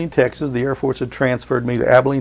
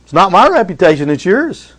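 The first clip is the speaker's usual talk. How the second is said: high, louder pleading to God; praying to God; 7 semitones higher, 5 dB louder than usual. Retold or imitated. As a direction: cry out to God in prayer. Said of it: "And I say".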